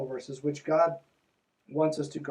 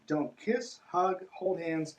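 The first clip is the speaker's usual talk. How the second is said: slow deliberate list; much slower than usual. Real, not acted. Slow listing of forbidden acts.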